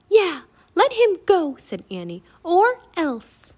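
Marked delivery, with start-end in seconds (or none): 0.1-1.5 high, loud, defiant order; defiant demand. A narrator's reading. Annie backs Jack against the king, defiant shout. 2.4-3.5 put-on high, loud childlike threat; defiant threat. A narrator's reading. Annie threatens the Raven King, high and defiant.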